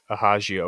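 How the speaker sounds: Hagio said as ha-zhee-oh; mistaken pronunciation. Shown as a demonstration. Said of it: "I thought it was, like".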